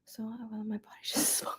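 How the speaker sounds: hushed whisper. Real, not acted. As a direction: breathe the words out. Unvoiced whisper.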